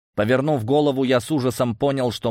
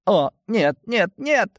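high, panicked refusals; frightened; 12 semitones higher, slower than usual. A narrator's reading. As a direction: recoil in fear, voice pitched right up. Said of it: "испугался волшебник". (испуганно, высоким голосом)

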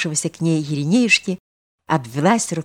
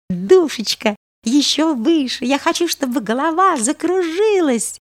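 high, eager begging; pleading girl; 10 semitones higher than usual. A narrator's reading. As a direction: beg him to push higher. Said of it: "умоляла она". (умоляющий девичий голос)

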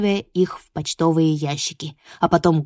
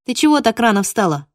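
grumbling; 3 semitones higher, 4 dB louder than usual. Acted. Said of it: "проворчала я".

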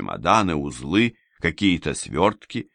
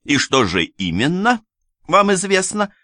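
high, louder, sneering question; mock his claim; scornful lady; 13 semitones higher, 4 dB louder than usual. A narrator's reading. Анна с вызовом. (высокий язвительный вопрос)

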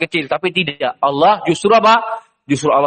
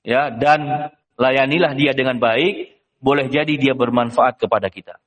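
slow, lower, calm request; gentle instruction; 4 semitones lower than usual. Acted. Official tells his wife to care for the boy, slow and gentle. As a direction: ask it gently and slowly. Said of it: "mengatakan kepada istrinya".

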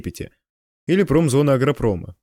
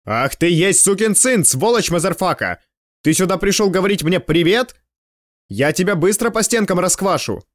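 roaring like a bison; 4 semitones higher than usual. Acted. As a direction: bellow it out like a charging bison. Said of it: "взревел, как бизон".

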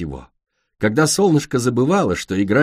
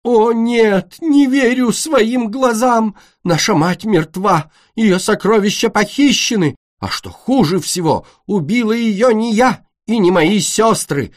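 higher, louder melodramatic lament; mock grief; 10 semitones higher, 4 dB louder than usual. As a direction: overact the mourning princess. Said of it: "издала горестный вопль".

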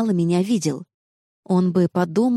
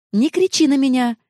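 shouting back; 7 semitones higher than usual. A narrator's reading. Noa yelling back at Jenna in the car. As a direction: snap back to stop her yelling. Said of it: "крикнула я в ответ".

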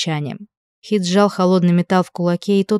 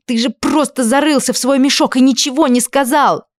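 higher, rising rant, falling on ничего; furious rant; 7 semitones higher than usual. A narrator's reading. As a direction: let it all spill out. Furious quarrel, blaming him.

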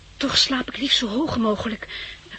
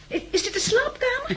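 giggling; 12 semitones higher than usual. Acted. Delighted discovering luxury flat.

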